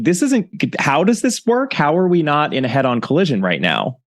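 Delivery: a Californian squeaking at a tiny lane; mock panic. Californian passenger on narrow English lanes, high mock panic. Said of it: "I'm just like".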